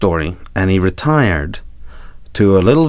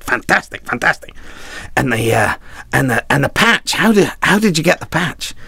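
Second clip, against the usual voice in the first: put-on eager young reporter; 6 semitones higher than usual. Reporter excited.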